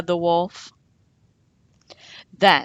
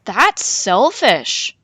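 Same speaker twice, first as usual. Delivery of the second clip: 1 reproachful; 4 semitones higher, 6 dB louder, slower than usual. A narrator's reading. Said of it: "said his friends".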